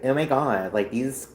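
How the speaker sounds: lightly voiced Valley Girl; a hint of gushing Valley Girl, falling away. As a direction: toss it off as a casual Valley Girl. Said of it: "'Cause I do the Valley Girl voice".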